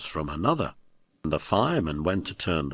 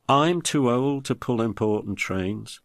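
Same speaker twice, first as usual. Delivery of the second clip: sad; 4 semitones higher than usual. Acted. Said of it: "said Edward sadly".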